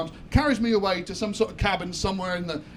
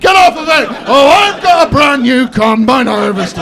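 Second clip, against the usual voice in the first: a higher, full-throated Somerset yell; shouted West Country accent; 6 semitones higher, 16 dB louder, slower than usual. Retold or imitated. A Somerset farmer shouting during sex, a West Country accent. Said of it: "till I sound like one of the Wurzels".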